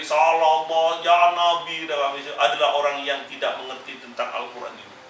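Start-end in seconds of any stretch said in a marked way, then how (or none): 0.0-1.8 mock shout. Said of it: "Orang yang jerit".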